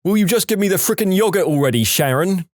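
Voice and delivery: high, fast British outburst; British accent. Acted. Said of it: "in a flawless British accent".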